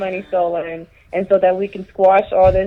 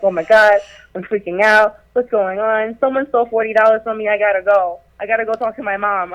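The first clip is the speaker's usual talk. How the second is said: a hint of a thief faking panic; mock panicked texts; 3 semitones higher than usual. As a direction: read his texts like fake alarm. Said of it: "he was texting me the whole time, like".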